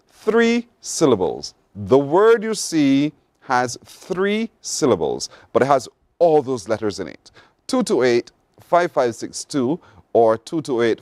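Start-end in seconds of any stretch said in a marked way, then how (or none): 0.1-5.3 slow emphatic. Shown as a demonstration.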